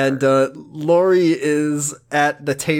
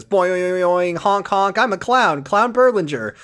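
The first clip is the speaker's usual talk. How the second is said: honking clown bit, slightly higher; silly clown voice; 4 semitones higher than usual. Pretend. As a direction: play a goofy honking clown. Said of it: "do a different bit".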